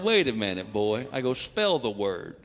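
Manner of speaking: low, slow stern father; stern dad. Retold or imitated. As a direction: stop him like a suspicious father. Dad stops son sternly.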